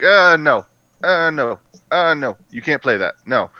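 smug, repeated no; smug denial. Retold or imitated. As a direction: shut them down, smugly. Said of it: "I'm just like".

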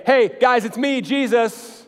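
mock casual Jesus. What Jesus did not say to disciples, mock casual. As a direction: toss it off like a buddy. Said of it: "he doesn't say".

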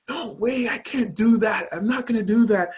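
high-pitched protest, not shouted; acting out a stubborn refusal; retold indignant refusal. Retelling his indignant refusal to fiancée.

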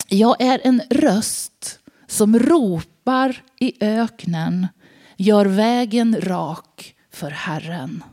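slow, measured proclamation; solemn prophet reply. Acted. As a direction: read it like the prophet's weighty answer. John answers with scripture. (långsam, högtidlig profetröst)

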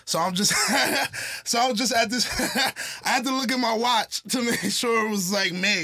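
high, giggling self-mockery; amused, laughing aside; laughing at himself. Real, not acted. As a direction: laugh at losing track of time. Laughing at own confusion.

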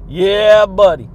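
loud, punchy yeah buddy; big hype shout to the listeners. Real, not acted. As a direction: belt it out like a hype man.

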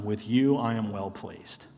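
hushed, loving affirmation; tender blessing. Acted. Father's words repeated tenderly.

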